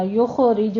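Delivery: یخرج with a stray vowel bounced after the خ; wrong echoing vowel. Shown as a demonstration. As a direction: let the خ in یخرج spill into an extra "o". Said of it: "نہیں کہنا".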